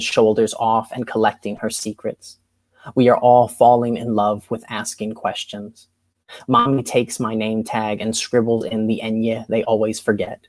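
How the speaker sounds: measured spoken word poem; poetry reading. Acted. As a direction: deliver it like a slam poet. Reads science fair poem.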